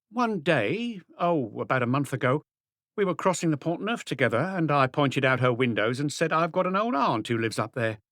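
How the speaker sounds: a hint of a sharp, defiant niece; hard woman. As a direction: tough niece snapping at the inspector. Angèle recounts the bridge.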